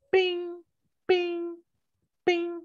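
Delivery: high ringing "bing" like a hammer on metal. Shown as a demonstration. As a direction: ring out each bing like an anvil strike. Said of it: "similar to the sound".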